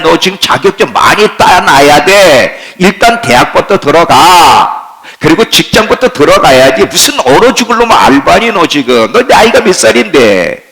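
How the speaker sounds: lightly voiced nagging relative; a hint of a scolding elder; preacher voices people pressuring a young believer, nagging. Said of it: "사람의 소리가 있어요".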